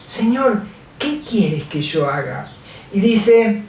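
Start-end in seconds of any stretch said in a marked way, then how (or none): 0.1-2.5 softly, almost under the breath, "Señor, ¿qué quieres que yo haga?"; a hushed, humble plea to the Lord; humble quiet prayer. Shown as a demonstration. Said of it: "¿le has dicho alguna vez así al Señor?".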